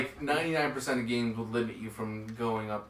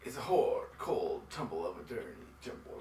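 whispered quote voice; 6 semitones lower, 7 dB quieter than usual. Retold or imitated. Quoting in a voice.

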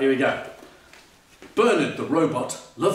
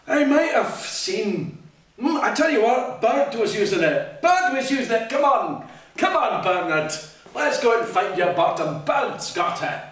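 lightly voiced monkey; 5 semitones higher than usual. Monkey character voice.

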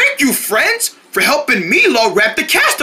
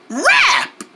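camp counselor cheer; 13 semitones higher than usual. Acted. Leads kids in call-out game.

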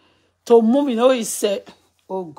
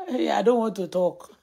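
laughing; 4 dB quieter than usual. Real, not acted. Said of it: "I can't stop laughing".

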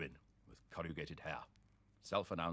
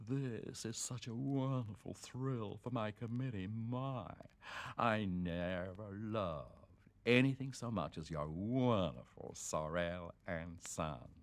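high, breathless society-lady gush, drawn out and slow on the last words; the businessman's wife gushing to Sir Hugh in a high, fluttering voice; gushing fan wife; 4 semitones higher, slower than usual. Acted. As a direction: swoon over the famous author. Gushing wife greets the author.

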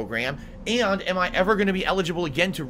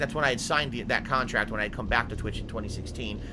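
reading out the email. Real, not acted. Reads Twitch email aloud.

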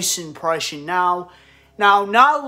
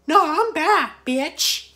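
Mickey Mouse; 10 semitones higher, slower than usual. Acted. YouTuber showing off an impression he kept, high mouse voice. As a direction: squeal it out in a high cartoon falsetto. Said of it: "like Mickey Mouse".

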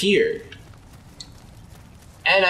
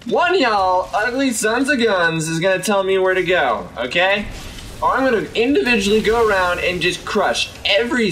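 tough-guy demand; 5 semitones higher than usual. Acted.

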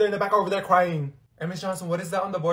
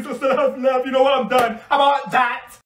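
frustrated shout; 8 semitones higher, 5 dB louder than usual. Real, not acted. Storming off in frustration.

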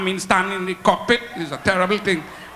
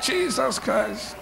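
stunned quiet; 4 semitones higher, 6 dB quieter, much slower than usual. Acted. Reaction to pilot leaving.

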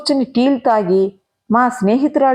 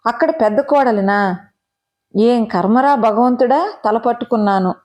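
plain reading voice

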